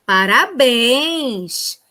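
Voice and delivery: a very slow, stretched-out Parabéns! full of praise; cheerful congratulations. Shown as a demonstration. Teacher demos an exclamation of praise, slow and cheery. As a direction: praise the class with delight. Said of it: "Então, exemplo".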